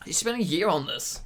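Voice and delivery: dropped low and quiet in disbelief; quiet repeat. Real, not acted. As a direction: mutter it again, deflated.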